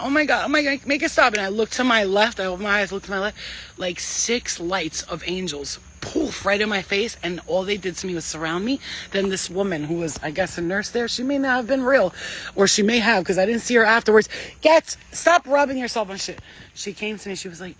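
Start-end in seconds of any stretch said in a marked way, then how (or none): 0.0-1.3 retold plea. Retelling terror, eyes closed. 14.6-16.4 higher, louder snap at the dog; scolding the pet. Real, not acted. Scolding her pet aside.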